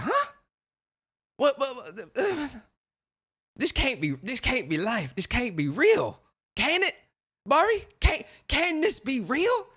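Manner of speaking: high-pitched, stammering mock shock; hammed-up disbelief. Retelling his reaction to his buddy's bad news, hammed-up disbelief. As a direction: draw out each plea in comic denial.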